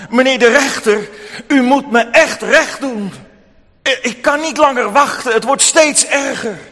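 hoog en luid, dringend smekend; smekende weduwe. Acted. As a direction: een wanhopige weduwe die aandringt. Weduwe grijpt rechter bij arm. (weduwe die de rechter bij de arm pakt, smekend)

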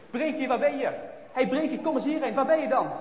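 put-on worried baker calling out for the lost boy. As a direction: call his name across the snow. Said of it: "hij roept het".

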